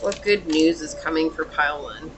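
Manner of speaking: quiet invocation. Real, not acted. Quietly asks Source while shuffling.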